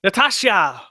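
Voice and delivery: playful name call. Pretend. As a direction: sing out the name in mock fanfare. Calls out the emailer's name.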